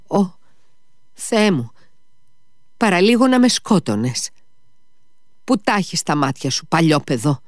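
put-on high-pitched, whimpering old lady's complaint; whiny old woman. A narrator's reading. Old woman scolds the man who nearly knocked her down, whiny. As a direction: wail it as an indignant little granny. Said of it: "Ακούστηκε η κλαψιάρικη φωνή κάποιας γριούλας".

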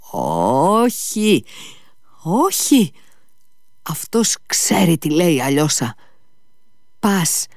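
high, agitated denial; insistent Ivan. A narrator's reading. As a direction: refuse to be soothed, pitch jumping high.

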